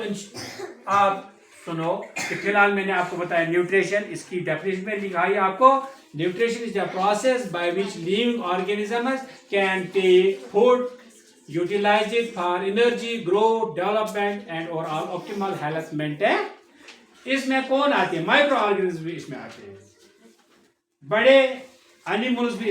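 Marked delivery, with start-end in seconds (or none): 6.2-16.5 reading the English definition slowly, word by word; teacher reading a textbook definition aloud; slow dictation reading. Shown as a demonstration. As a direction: dictate it slowly so the class can write.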